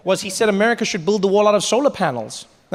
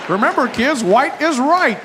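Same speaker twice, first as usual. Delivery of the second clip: put-on children's character; 5 semitones higher than usual. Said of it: "like a bad children's character".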